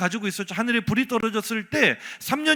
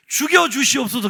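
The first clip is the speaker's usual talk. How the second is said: courtier's plea; 3 semitones higher, 4 dB louder than usual. Retold or imitated. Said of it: "신하들이 왕 앞에서".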